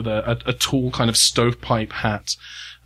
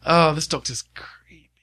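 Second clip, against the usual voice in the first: whisper. Real, not acted. Aside about the creepy doctor.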